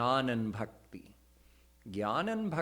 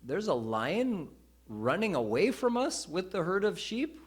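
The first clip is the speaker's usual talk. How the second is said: surprised lion; 6 semitones higher than usual. Retold or imitated. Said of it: "he said".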